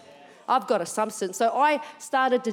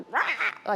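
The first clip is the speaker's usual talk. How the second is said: short mock roar; quick growled outburst, imitated; mimicked angry noise. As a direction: imitate a mother's dismissive "rah". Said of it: "she was just like".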